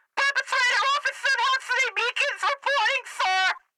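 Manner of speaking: shouting through a megaphone. A player using a megaphone to report in as an officer, megaphone shout. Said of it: "if I'm using my megaphone I can do it like this".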